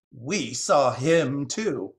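slow, drawn-out crow interjection; grumpy squawk. Acted. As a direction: butt in slowly as a grumpy crow. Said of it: "a couple of crows grumpily interrupted".

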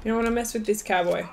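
put-on quick cowboy brag in accent. Player boasting after a kill, cowboy accent. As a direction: toss off a warning in a cowboy accent. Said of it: "doing the cowboy accent".

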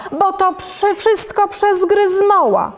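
high-pitched monster protest; high, complaining little monster; monster calling out. A narrator's reading. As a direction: pipe up high as the accused creature. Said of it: "czupiradło woła".

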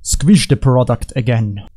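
slow mock Russian accent; drawn-out, put-on Russian delivery. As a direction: say it slowly with a light Russian accent. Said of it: "With a Russian accent".

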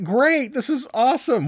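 overjoyed crowd, played for laughs; mock excited. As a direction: people cheering God's promise, mock glee. People's cheerful reaction to promise.

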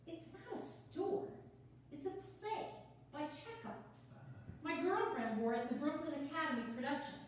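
quick, bubbly, a little flustered; nervous newcomer rattling on; nervous chatty woman. Acted. Sonia reading her part.

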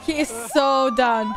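drawn out while laughing; slow laughing. Real, not acted. Laughing at video.

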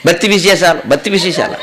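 imitated anchor's బత్తి with unaspirated b; mock mispronounced బత్తి announcement; missing aspiration. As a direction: repeat బత్తి for bhakti, dropping the breath. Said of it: "ఒత్తులు పలకలేదు".

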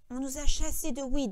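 understated burst of triumph; triumphant outburst. A narrator's reading. Lenny suddenly remembering Weed for George, triumphant. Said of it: "dans une explosion de triomphe".

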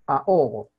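Ahogo split as a-ogo, silent h; separated vowels. Shown as a demonstration. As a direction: say Ahogo loudly with a and o apart. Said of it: "La H es muda".

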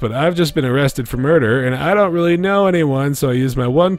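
put-on high, bright valley girl reading. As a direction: read it like a clueless valley girl. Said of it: "quintessential example of".

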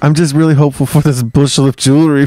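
high, loud mock-greedy woman's voice; playing Tarpeia. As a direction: ham up the treacherous Roman maiden, dragging it out. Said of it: "Wait, I'm a woman, right?".

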